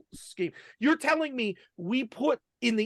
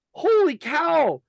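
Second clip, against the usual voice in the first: high, louder burst of astonishment; amazed discovery; 8 semitones higher, 4 dB louder than usual. Retold or imitated. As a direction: reenact a sudden realization, pitch jumping up. Retelling a sudden discovery.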